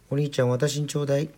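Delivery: put-on high-pitched child begging; small girl's insistent plea; pleading little sister. A narrator's reading. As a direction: beg big brother in a high voice. Little sister begs brother.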